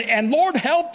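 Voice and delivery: pleading cry for help, pitch leaping up on help; desperate cry. Acted. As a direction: cry out to the Lord as if drowning. Psalm's cry for help, voiced.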